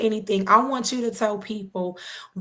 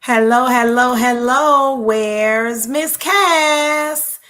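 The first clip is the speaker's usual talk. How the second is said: calling out; 3 semitones higher, 8 dB louder, much slower than usual. Acted. Calling out for the host.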